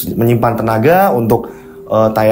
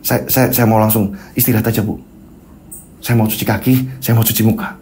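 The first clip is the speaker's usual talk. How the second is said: dazed husband. Acted.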